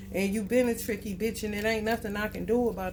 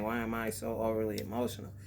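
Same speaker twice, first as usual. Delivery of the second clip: mock overwrought whine; 10 semitones lower than usual. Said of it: "Why am I crying?".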